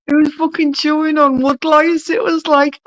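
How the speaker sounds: high, laugh-filled telling; laughing while talking. Real, not acted. Telling her friend about the wood lice, laughing. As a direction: giggle your way through it.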